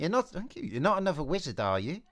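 put-on a plucky girl talking herself out of fear; Eliza. Eliza voiced in story.

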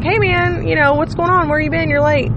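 put-on casual, easy-going coach greeting a late kid; chill coach. Coach casually asking a late player where he's been, laid-back. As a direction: play it like a relaxed coach, no edge. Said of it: "the coach is just, like, real chill".

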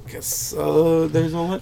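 quoted low and very soft; underplayed imitation of a film line; understated movie-line delivery. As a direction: drop it down to a quiet, low aside. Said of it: "it was really well done".

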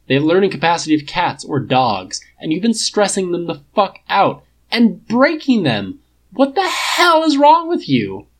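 loud, rising angry rant, pitch climbing high by the end; furious tirade. Acted. Tony rages at Clint for breaking his bots, loud and high.

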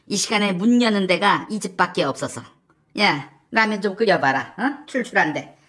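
bothered, low-pitched husband; Yoon Suk-yeol. Acted. Husband brushing off wife's nagging, bothered and offhand. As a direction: answer the nagging as if it's a nuisance. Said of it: "귀찮듯이 이렇게 말을 해".

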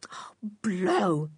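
soft whispered disappointment; whispered oh blow. A narrator's reading. Boy muttering at the failed errand, whispered. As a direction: breathe it out, let down.

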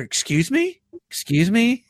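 high, questioning imitation; taken-aback caller. Telemarketer reacting to being yelled at, high mock disbelief. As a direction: mimic a caller shocked by the outburst. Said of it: "then you hear them".

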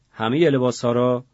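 a touch of angry disbelief; sharp retort. Acted. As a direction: push back hard on همهٔ. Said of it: "خدا کرم تند شد".

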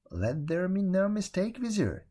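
a hint of a commanding king; grand languid royal commands. A narrator's reading. Sultan warns the Vizier.

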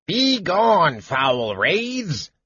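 kender putting on a cleric's commanding voice; high kender trying to sound gruff and grand; mock authoritative command. A narrator's reading. Kender banishes wraiths like a cleric, mock-authoritative. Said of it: "commanded, using a deep, gruff, authoritative voice".

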